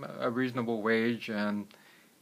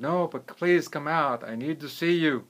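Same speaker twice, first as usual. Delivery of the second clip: high, insistent appeal; urging; 5 semitones higher, 3 dB louder than usual. Acted. Wealthy man urging the hidden man to come out, urging. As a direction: urge with a raised voice.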